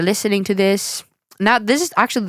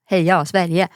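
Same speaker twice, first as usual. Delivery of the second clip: put-on Swedish accent; 3 semitones lower than usual. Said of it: "stupid Swedish accent".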